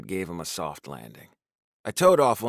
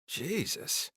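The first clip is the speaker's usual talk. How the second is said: unsure; 8 semitones higher, 7 dB quieter than usual. A narrator's reading. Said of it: "I said, unsure what to do next".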